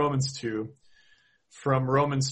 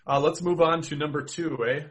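Minnesota accent; 4 semitones higher than usual. Real, not acted. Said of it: "that was my Minnesota accent coming in".

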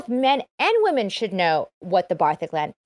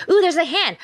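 surprised; 8 semitones higher, 4 dB louder than usual. Real, not acted. Spots a raised hand.

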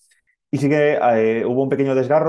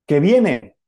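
retold cry; 5 semitones higher, 4 dB louder than usual. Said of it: "que dijo".

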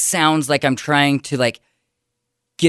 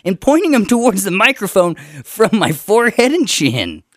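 throaty nasal voice; 9 semitones higher, 4 dB louder than usual. Shown as a demonstration. Keeps up his mocked voice.

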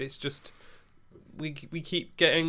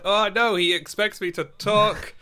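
high, loud sudden panic; hammed-up alarm at having to talk; mock panic; 9 semitones higher, 7 dB louder than usual. Mock panic at being asked.

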